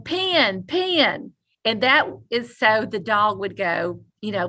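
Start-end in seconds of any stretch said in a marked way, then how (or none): 0.0-1.3 imitating yelling. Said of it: "we hear 'em yelling".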